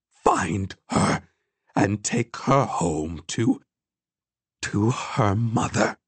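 put-on slow, measured old woman's plea; calm. A narrator's reading. Old woman asks him to take granddaughter home, calm. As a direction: spell out the last wish slowly and calmly. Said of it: "she said calmly".

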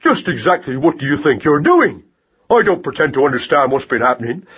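indignant mouse tirade, rising on outbursts; raging torrent. A narrator's reading. Mouse berating rat-catcher for threatening his mother, indignant tirade. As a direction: scold hotly without letting up. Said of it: "positive raging torrent of words".

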